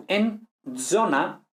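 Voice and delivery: zona, slowly; slow careful Z. Shown as a demonstration. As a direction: say zona deliberately. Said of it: "por ejemplo".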